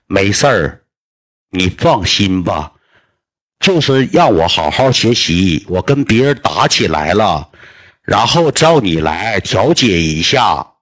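very slow, drawn-out, emphatic words; slow and deliberate, each phrase spaced out; talking into a deaf ear. Retold or imitated. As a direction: spell it out slowly for a hard-of-hearing grandpa. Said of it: "一顿跟我姥爷搁耳朵跟前我念叨".

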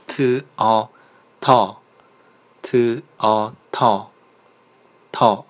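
slow, drawn-out letters t and o spelled one by one; sounding out syllables. Shown as a demonstration. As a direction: spell out t and o very slowly. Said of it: "都是一样道理，我就往后读了".

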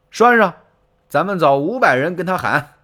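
high, loud barked command; commanding order. Acted. Taishi Ci ordering his men to shout back, loud command.

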